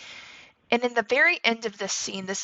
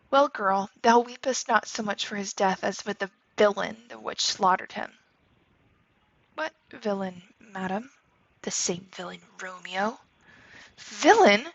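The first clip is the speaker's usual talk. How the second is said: lightly acted Shakespeare reading, voicing Juliet and her mother; reading a play aloud. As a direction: read the scene for the class with a hint of each character. Teacher reads Shakespeare scene aloud.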